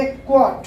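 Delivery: क्वॉट with a light push on "kwo", falling; slight stress. Shown as a demonstration. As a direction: lean gently into क्वॉट and close on a crisp t. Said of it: "हल्का सा stress देंगे".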